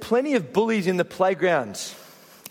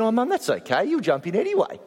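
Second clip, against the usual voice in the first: higher, a hint of a boy answering Mum; reply like a kid, pitched up a bit; lightly voiced child; 7 semitones higher, faster than usual. Retold child's reply to his mother.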